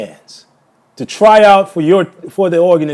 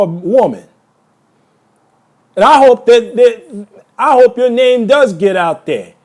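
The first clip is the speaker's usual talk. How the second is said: real heated accusation, pitch a little raised; indignant, emphatic denunciation; angry tirade; 3 semitones higher than usual. Real, not acted. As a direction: lay into them, hitting each insult hard. Furious direct accusation of a woman.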